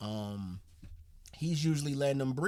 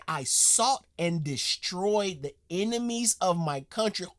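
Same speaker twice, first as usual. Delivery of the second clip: lightly voiced solemn old soldier, slowed down; mock grave quote; 5 semitones higher, 4 dB louder than usual. Repeating the soldier's line to viewers, a touch of mock solemnity. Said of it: "He said".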